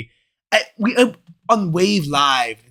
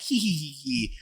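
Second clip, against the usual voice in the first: mock mischievous giggle; 8 dB quieter than usual. Retelling his mischief while stealing Gatorade.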